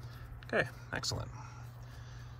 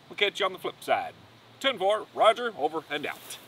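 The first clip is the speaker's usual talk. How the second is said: radio sign-off; 6 semitones higher than usual. Pretend. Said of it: "Was that lame enough?".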